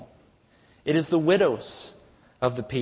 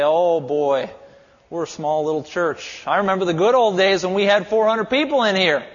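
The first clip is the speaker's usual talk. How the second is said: mock whining; 2 semitones higher, 4 dB louder than usual. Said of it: "moan and complain and whine and say".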